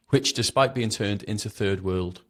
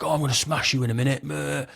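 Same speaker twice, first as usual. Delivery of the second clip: quick, higher-pitched jeering threat; scornful mimicry, fast and pitched up; mocking cop imitation; 6 semitones higher than usual. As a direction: rattle off a cop's threat in mockery.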